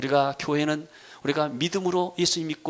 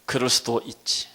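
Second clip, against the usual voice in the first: accepting; 3 semitones lower than usual. Acted. Voicing a forgiving believer.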